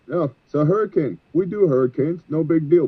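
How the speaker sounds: imitating easy confidence; breezy confidence. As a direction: brush it off like a routine job. Voices the team's confident expectation.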